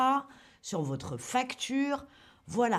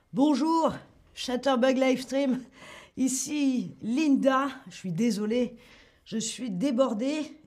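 customer service voice; 4 dB louder than usual. Acted. Linda answering as customer service.

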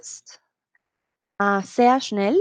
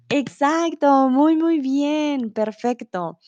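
praise; 4 semitones higher, 3 dB louder, slower than usual. Real, not acted. Teacher praising correct answer.

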